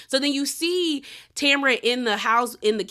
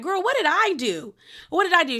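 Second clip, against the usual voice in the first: exasperated; 6 semitones higher than usual. Retold or imitated. Heather confronting Tamara in argument.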